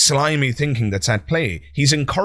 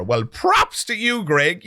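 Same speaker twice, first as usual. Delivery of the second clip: sarcastic praise; 7 semitones higher, slower than usual. Pretend.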